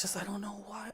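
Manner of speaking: whisper. Real, not acted. Exasperated aside.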